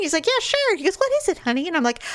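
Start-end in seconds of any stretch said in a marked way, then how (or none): 0.3-0.8 high, obliging imitation; mock agreeable husband. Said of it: "suddenly he's not nice anymore". 1.0-1.7 mock nice husband. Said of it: "suddenly he's not nice anymore".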